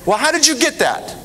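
high-pitched questions broken by laughter; laughing through it. Real, not acted. Speaker laughing while questioning the congregant about her word. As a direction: try to stay clinical but keep cracking up. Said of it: "trying to be very clinical".

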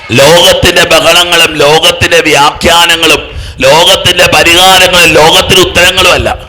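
loud, high preaching at full force; fervent preaching. Acted. Preacher rousing the congregation, loud and high. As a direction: build the crowd up, each line hammered.

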